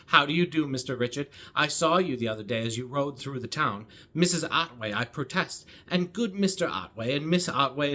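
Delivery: lightly voiced chattering Miss Bates; Miss Bates reading. Booktuber reads Miss Bates's rambling greetings, lightly voiced chatter. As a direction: rattle on as a breathless, gushing old spinster, a hint of a character voice. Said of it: "one long paragraph of Missus Bates speaking".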